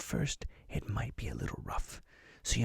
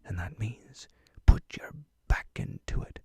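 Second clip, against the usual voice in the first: whispering pirate; 3 semitones higher than usual. Acted. Whispered pirate host throughout.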